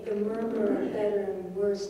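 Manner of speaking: evenly murmured line; nothing sticks out, keep it rolling; murmuring demo. Shown as a demonstration. Teacher demonstrating unstressed syllables, murmured evenly. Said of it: "lots of er sounds and lots of unstressed syllables".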